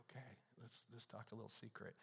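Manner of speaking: very soft, secretive murmur; imitated child's whisper. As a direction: share a little secret, hushed. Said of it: "A child whispering in your ear".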